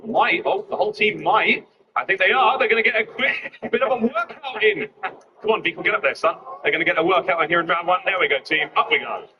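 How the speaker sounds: loud, high, fast caster hype; excited hype. Real, not acted. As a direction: hype the rush up. Caster hyping a team rush.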